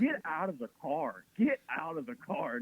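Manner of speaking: slow, emphatic retold outburst; mock angry order. Comic retelling a car quarrel with his girlfriend, mock angry. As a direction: order them out with mild mock fury.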